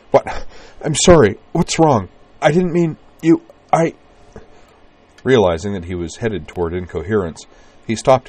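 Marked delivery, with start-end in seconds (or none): 0.1-3.9 high, loud, panicked apology; breathless babbling. A narrator's reading. Man apologizing breathlessly to the woman he frightened. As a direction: babble it out in a rush. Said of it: "he said breathlessly".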